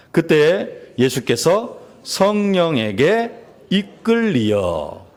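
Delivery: very slow, phrase-by-phrase recitation; slow, measured reading aloud; scripture reading. Acted. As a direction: lead a congregation reading the verse together, stretching each word. Leads congregation reading a verse aloud.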